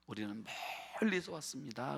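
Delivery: soft, worn-out travellers' claim; subdued traveller's plea. Acted. Ragged strangers tell Joshua they came from afar, subdued plea. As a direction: say it quietly, drawing out the distance. Voices travellers feigning a long journey.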